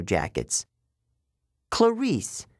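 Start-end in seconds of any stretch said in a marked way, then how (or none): 1.7-2.5 weary sigh. Acted. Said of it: "Annabeth sighed".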